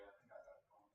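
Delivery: distant, off-mic voice; calling from the next room; from another room. Real, not acted. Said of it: "You can hear me in the other room".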